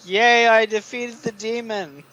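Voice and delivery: sarcastic. Retold or imitated. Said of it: "equally as sarcastic".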